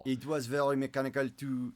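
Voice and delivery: careful, lightly French-accented English; attempted French accent. Shown as a demonstration. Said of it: "This is the French".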